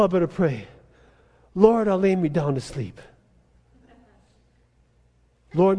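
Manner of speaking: mindless sing-song bedtime prayer; tired believer mumbling a rote prayer. Retold or imitated. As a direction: rattle it off without meaning. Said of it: "mechanically recited prayers".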